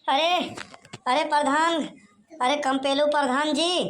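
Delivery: yelling to be heard indoors; calling out loudly. Acted. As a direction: call for the headman from outside. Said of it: "कौन चिल्ला रहा है".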